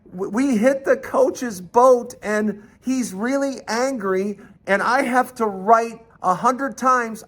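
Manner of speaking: imitating an upset child explaining to Mom; tearful child. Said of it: "and I'm crying".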